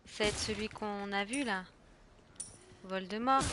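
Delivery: normal talking voice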